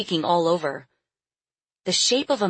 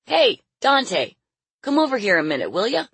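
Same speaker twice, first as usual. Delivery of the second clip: raised, higher calling voice; yelling out; 5 semitones higher, 4 dB louder than usual. A narrator's reading. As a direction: call a workmate over from the doorway. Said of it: "and yelled out".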